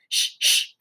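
voiceless shushing; whispered hush. A narrator's reading. Big sister hushes Ramona in the library, whispering. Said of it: "she whispered".

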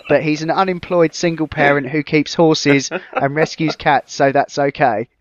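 measured, even written-review reading; review read aloud. Real, not acted. Host reads friends his tiny review of Homefront, deadpan read-aloud. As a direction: read your own comic review out straight-faced.

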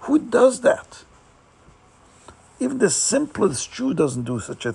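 a man scolding himself for eating before prayer, anguished; guilty lament. Acted. Chassid scolding himself after eating duck, rising anguish. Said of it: "then he felt so bad".

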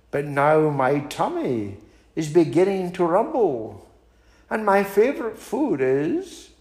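storybook mouse with swooping tune; crafty mouse. Acted. Mouse figure addresses the Gruffalo.

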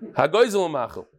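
reading the heading through a laugh; amused chuckle on the title. Real, not acted. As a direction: let a chuckle break into the words.

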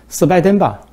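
音调猛地拔高，满怀期待地问; 像盼了半天终于等到电话; 急切期待. Acted. 急切接电话以为是拜登. (兴冲冲地问)

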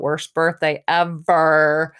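slow, hammed-up lament; mildly mocking imitation of tearful despair; mock bawling. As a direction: drag it out, mimicking a sore loser's wail. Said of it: "bawling her eyes out".

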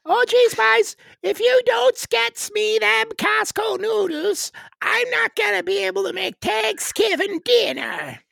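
very high, loud, slow Newfoundland caricature; Newfoundland accent. Acted. Newfoundlander warns the boys about dinner noodles, high Newfoundland accent. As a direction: fret loudly in a high Newfoundland voice. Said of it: "it's an Irish sort of accent".

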